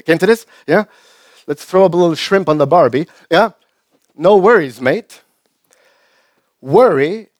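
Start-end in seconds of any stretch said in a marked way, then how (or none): 1.5-3.1 put-on Australian accent. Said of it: "die Australier". 4.1-5.1 put-on Australian accent. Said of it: "die Australier".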